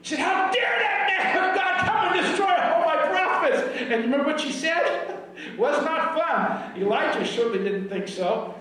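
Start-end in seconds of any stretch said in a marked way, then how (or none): 0.2-3.6 high-pitched outraged queen; preacher imitating a wicked queen's fury; furious. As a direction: explode in acted indignation, pitched way up. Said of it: "she was furious".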